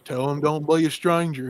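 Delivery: lightly imitated backwoods Southern farmer; a hint of folksy Southern dad in the background; Southern country accent. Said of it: "why do they sound like that".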